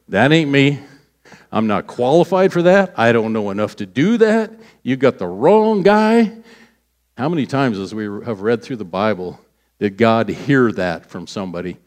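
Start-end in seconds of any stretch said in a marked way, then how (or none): 0.1-6.3 protesting, pitch jumping up high; mock-indignant backing out; acted refusal. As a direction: push the job away, rising in pitch. Acting out people refusing God's calling.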